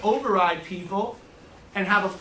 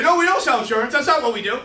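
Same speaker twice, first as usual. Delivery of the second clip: mock denial; 3 semitones higher, 5 dB louder than usual.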